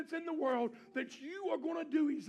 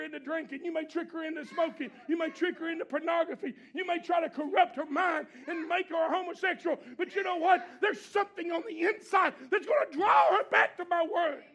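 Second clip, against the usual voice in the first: defiant preaching; 3 dB louder than usual. Acted. God defying the devil, preached.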